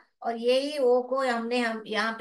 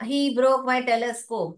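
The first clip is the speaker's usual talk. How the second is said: slow model reading; much slower than usual. Shown as a demonstration. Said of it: "ऐसे नहीं".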